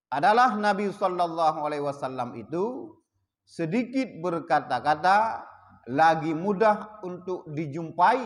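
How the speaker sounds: slow, measured kitab-style reading; formal translation reading. Acted. Teacher reads the Malay translation aloud, slow and measured. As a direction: read the translation out deliberately.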